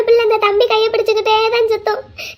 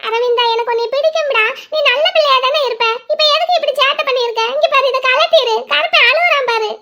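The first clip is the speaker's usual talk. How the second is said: pleading coax; 4 semitones higher than usual. Acted. Girl coaxes Aravindan to undo it.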